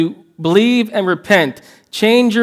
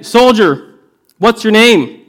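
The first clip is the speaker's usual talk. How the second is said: raised, higher, louder insistence; stern king asking again; 5 semitones higher, 4 dB louder, slower than usual. Acted. King pressing the soldier for his name, insistent. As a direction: press him for the answer a second time. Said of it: "he asks again".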